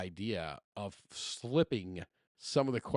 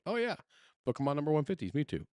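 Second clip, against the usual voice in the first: chirpy recall; 5 semitones higher, faster than usual. Retold or imitated. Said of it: "I'm like".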